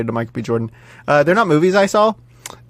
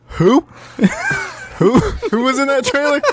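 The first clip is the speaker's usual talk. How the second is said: incredulous; 10 semitones higher than usual. Retold or imitated. Asks wife after trailer.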